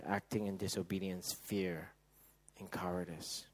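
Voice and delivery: fading to soft. Acted. Fading list of failings.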